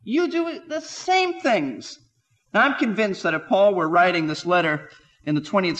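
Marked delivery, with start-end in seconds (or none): 0.0-2.0 stern rebuke. Retold or imitated. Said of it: "And Paul says".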